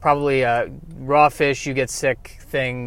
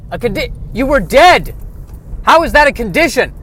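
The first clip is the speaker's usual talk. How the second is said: incredulous; 11 semitones higher, 9 dB louder than usual. Acted. Host disbelieving the guest.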